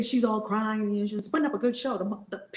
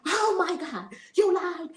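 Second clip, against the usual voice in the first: mock shock; 8 semitones higher, 4 dB louder, slower than usual. Parents shocked by the truth.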